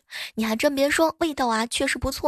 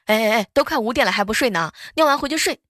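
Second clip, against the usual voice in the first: scolding dad; 4 dB louder, faster than usual. Retold or imitated. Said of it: "他又骂我".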